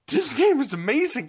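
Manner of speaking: high, gushing fan quote; imitated fan enthusiasm. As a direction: gush like an excited fan. Imitates enthusiastic YouTube fans.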